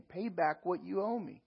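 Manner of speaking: an angry master's demand, building up. Acted. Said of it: "he demanded".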